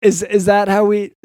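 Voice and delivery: flustered, restarting as the plan slips away; panicking. Pretend. Doctor fearing for his twenty-year plan, mildly panicked. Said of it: "you're, you're panicking".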